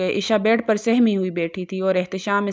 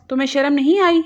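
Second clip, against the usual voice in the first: higher, louder scolding question; angry rebuke; 6 semitones higher, 4 dB louder, faster than usual. A narrator's reading. Aunt scolding the frightened girl, angry and loud. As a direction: scold her as if she has no shame. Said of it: "Zahida بیگم نے غصے سے کہا".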